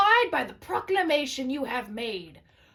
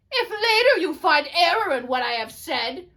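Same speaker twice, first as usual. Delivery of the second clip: louder, tearful warning; anguished cry; 4 semitones higher, 5 dB louder than usual. Acted. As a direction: plead through rising distress. Prophet's anguished final warning.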